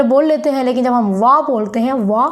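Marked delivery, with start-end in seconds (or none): 1.9-2.3 वा given force; stressed syllable. Shown as a demonstration. Teacher contrasting with the weak syllable, वा stressed. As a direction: press on वा. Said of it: "तो हम जोर देते हैं".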